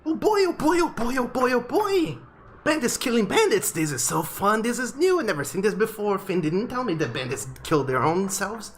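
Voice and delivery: very high, bright-eyed chirpy owl voice; excited little owl. Acted. The owl on the head cheering the bandit fight, squeaky high. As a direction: bounce on every word like a giddy bird. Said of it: "the owl on top of your head says".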